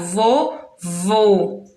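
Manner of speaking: "Vô, vô" by syllables, closed rounded ô; closed O sound. Shown as a demonstration. Teacher demonstrating circumflex, "Vô, vô" split and closed. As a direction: sound out "Vô, vô" separately, both closed. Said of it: "tem um som fechado".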